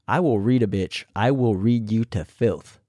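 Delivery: imitating Jujubee. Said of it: "I tried my best to imitate them".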